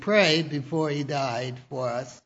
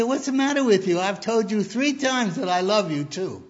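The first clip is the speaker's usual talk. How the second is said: exasperated wife; 4 semitones higher than usual. Retold or imitated. Wife snaps back at husband.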